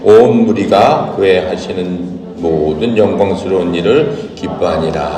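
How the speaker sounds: measured, formal Bible reading voice; solemn recitation of scripture. Acted. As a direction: read the verses aloud to the class with weight. Reads the scripture passage aloud.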